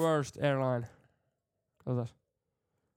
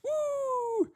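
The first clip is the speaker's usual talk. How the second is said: high loud hype calls; high excited whoops; party whooping; 6 dB louder, much slower than usual. Acted. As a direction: whip up a party crowd. Party cheering.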